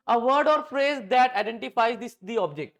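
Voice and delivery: slow, word-by-word dictation. Shown as a demonstration. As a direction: spell it out slowly for notes. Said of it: "note कीजिए". (धीमे-धीमे लिखवाना)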